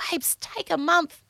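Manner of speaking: drawled Babes take a month; breezy dismissive advice; sassy, slow. Retold or imitated. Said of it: "I'd be like".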